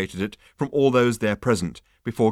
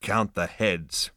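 low rasp; much slower than usual. Acted. Zaphod answering the insect in a slow low rasp. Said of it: "said Zaphod in a low rasp".

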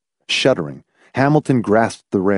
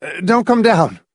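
higher, tense snarl; snarling order; snarled warning; 9 semitones higher than usual. A narrator's reading. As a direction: snarl it as a warning to keep away. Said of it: "he snarled".

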